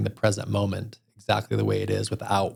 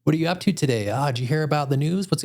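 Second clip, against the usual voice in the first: higher, eager questioning voice; chatty Uber driver; 6 semitones higher than usual. Retold or imitated. Still mimicking the driver's nonstop chatter, eager and high. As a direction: play the chatty driver, one question after another. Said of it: "the chattiest dude ever".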